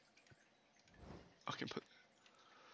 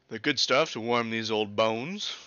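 put-on old drinker; 3 semitones lower, 6 dB louder, much slower than usual. Voicing old Pam's dialogue.

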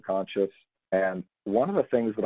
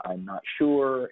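slow, unsure; drawn out with doubt; 2 semitones higher, slower than usual. Retold or imitated. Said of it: "question and uncertainty".

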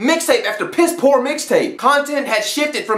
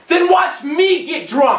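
defiant shout; 6 semitones higher, slower than usual. Real, not acted. Answering a friend who won't drink.

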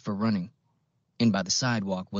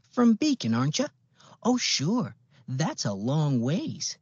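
put-on a chirpy old Midwestern accent, pitched up; old-fashioned Midwestern accent; 7 semitones higher than usual. A narrator's reading. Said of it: "old-fashioned Midwestern accent".

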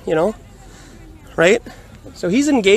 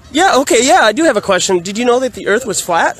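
said loud enough to be overheard; 3 semitones higher than usual. Retold or imitated. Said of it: "I said it loud enough".

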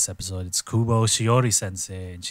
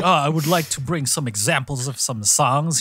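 mock fangirling; 2 semitones higher than usual. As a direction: gush like a teacher showing off a favorite song.

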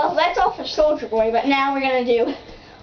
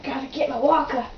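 put-on very old faint voice. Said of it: "we're gonna pretend to be old ladies".

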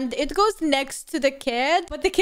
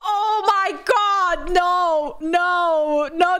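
slow, higher shocked cry; 3 semitones higher, much slower than usual. Real, not acted. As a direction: gasp it out in shock. Shocked at ride.

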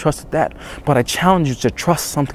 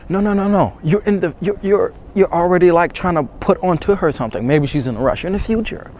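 emphatic correction; 6 semitones higher than usual. Real, not acted. Correcting the viewer's hesitant thinking.

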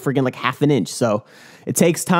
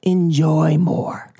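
drawn-out, very slow catchphrase; slow hype catchphrase; 2 semitones higher, much slower than usual. Shown as a demonstration. Telling viewers his two-word motto, said very slowly and drawn out. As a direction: stretch the slogan out like a hype man. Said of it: "All you gotta do is two words".

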